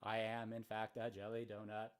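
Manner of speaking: a hint of a mock presidential declaration; deliberate mock speech, slightly put on; John F. Kennedy. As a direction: lightly imitate a statesman making a solemn announcement. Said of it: "there's Kennedy telling the Germans".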